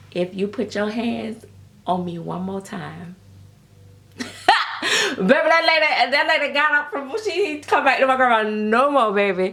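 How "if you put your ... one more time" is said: put-on soft-spoken old woman voice, much quieter. Retelling grandma turning to a lady who tapped her, in grandma's soft voice. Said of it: "my grandma had a very soft voice".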